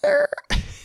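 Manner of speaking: quick squeaky laugh; a short laugh breaking up the demo; laughing mid-demo; high laugh. Real, not acted. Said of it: "I'm just doing the".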